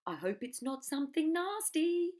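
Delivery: breathy high whisper, wary; a worried little bird whispers up high. Acted. Bird whispers its worry to the crocodile, high and hushed. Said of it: "sang the roly-poly bird".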